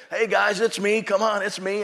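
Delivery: a changed man calling to the preachers in his driveway; excited calling out. Retold or imitated. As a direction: call out happily to friends driving past.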